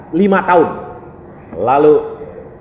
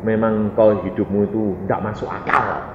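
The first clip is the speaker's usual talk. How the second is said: teman bicara pelan; 8 semitones lower, 6 dB quieter than usual. Retold or imitated. Acts roommate's subdued remark.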